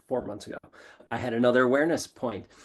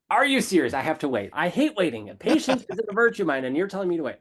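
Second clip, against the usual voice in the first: high, louder exasperated outburst; exasperated disbelief; 6 semitones higher, 3 dB louder than usual. Retold or imitated. Protesting a dream's message, exasperated. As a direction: protest like a child told to wait.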